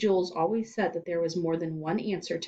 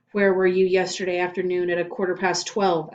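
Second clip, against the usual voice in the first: interrogating principal; 7 dB louder than usual. Acted. Interrogator demands.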